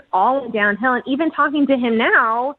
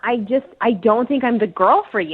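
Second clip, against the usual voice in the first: sarcastic mock humility; halting, falsely modest excuse. Real, not acted. Woman telling her date she isn't worthy of him, sarcastic. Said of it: "I get you're being sarcastic".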